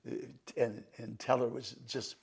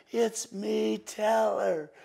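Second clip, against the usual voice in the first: high, excited, overwhelmed voice; Teller; 10 semitones higher, 5 dB louder, much slower than usual. Retold or imitated. Teller backstage revealing himself to the magician, overwhelmed. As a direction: call it out high, bursting with amazement. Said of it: "That's exactly how he said it".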